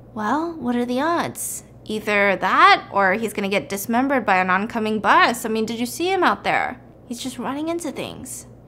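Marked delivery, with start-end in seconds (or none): none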